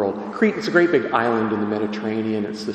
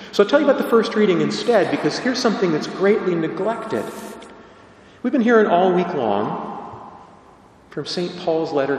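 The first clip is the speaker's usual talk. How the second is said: higher, louder, faster preaching; excited; 5 semitones higher, 3 dB louder than usual. Real, not acted. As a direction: lift the energy and push forward. Energetic preaching lift.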